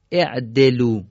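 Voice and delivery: اعدلو begun with "e": e'delu; kasra on alef. Shown as a demonstration. Teacher presenting another example, اعدلو said "e'delu".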